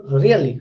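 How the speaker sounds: "really" low with a falling pitch. Shown as a demonstration. Teacher demonstrating falling intonation, "really" low and falling. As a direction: drop the pitch down through "really". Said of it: "falling tone".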